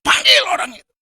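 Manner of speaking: high and loud command; loud call. Acted. Jesus ordering the crowd to call the blind man, loud call. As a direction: call the man over firmly.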